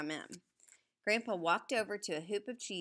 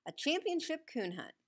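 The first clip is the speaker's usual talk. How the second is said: excited, pitched higher; boy's awed, higher exclamation; thrilled; 10 semitones higher than usual. A narrator's reading. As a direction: savour it like a dream come true. Boy thrilled by the news.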